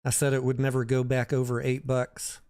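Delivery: usual speaking voice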